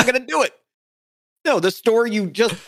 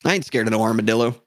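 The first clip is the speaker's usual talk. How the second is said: tough guy; 4 semitones lower, faster than usual. Acted.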